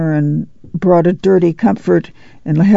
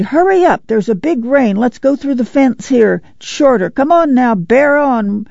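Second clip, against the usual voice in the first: cried out; 6 semitones higher than usual. Acted. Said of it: "Ma cried".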